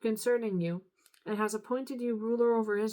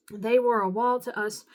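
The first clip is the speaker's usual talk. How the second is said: louder, firm corrected reading; corrected reread; 6 dB louder than usual. Real, not acted. Reader fixing a stumble in scripture, firm and louder. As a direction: say it again cleanly and with weight.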